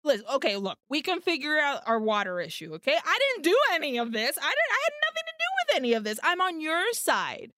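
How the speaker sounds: frantic, climbing pitch as the excuses pile up; nervous scrambling. Retold or imitated. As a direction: talk fast and high like you're scrambling to cover yourself. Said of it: "So Tony starts a scrambling".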